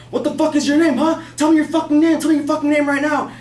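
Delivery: high-pitched mock yell of a furious man; angry demand, imitated. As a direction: demand it like an irate neighbor. Imitating irate man demanding a name.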